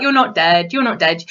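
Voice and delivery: low, insistent denial. Retold or imitated. Fan willing the hero alive, low and insistent. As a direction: refuse to believe he's dead. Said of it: "And I was like".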